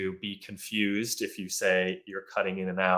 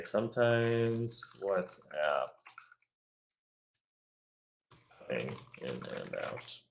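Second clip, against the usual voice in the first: slow model read; 10 dB quieter, slower than usual. Shown as a demonstration. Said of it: "or you could just say".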